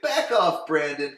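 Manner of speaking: very high, loud snapped warning; mock snarl. Dylan warning Brandon to back off, very high and loud. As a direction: bark it at the nosy brother. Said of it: "Dylan's like".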